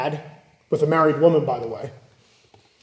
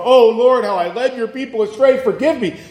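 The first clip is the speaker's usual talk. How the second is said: a hint of a king begging on his knees; mock contrite prayer; 5 semitones higher than usual. Preacher voicing Solomon's missing repentance, mock contrite. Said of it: "He doesn't go on his knees and go".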